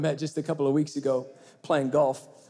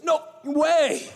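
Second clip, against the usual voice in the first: surprised; 12 semitones higher, 4 dB louder than usual. Retold or imitated. Golfer hears he is a pastor.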